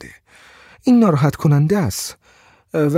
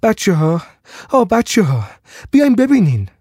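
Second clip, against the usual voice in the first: put-on calling the children, rising higher each word; 8 semitones higher than usual. A narrator's reading. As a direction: call over her shoulder to the children. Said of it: "دوباره فریاد زد".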